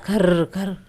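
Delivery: rolled-r imitation of snoring; mock two snores with a rolled r; snoring sound. Shown as a demonstration. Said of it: "નસકોરાનો અવાજ". (નસકોરાંની નકલ)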